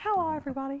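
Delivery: very high, loud, squeaky voice. Greeting everybody in a voice that sounds like Mickey Mouse. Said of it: "That sounded a bit like Mickey Mouse then".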